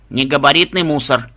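creaky machine voice, robot-like; a lightly voiced talking garbage bin; metallic robot voice. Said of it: "проскрипел металлический голос машины".

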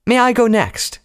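very high, loud eager request; eager shout. A narrator's reading. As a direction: shout out to be picked, high-pitched. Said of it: "who had just shouted".

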